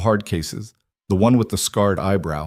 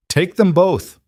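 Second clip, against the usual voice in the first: barked command; 10 semitones higher, 4 dB louder, slower than usual. A narrator's reading. Sheriff orders deputies to arrest.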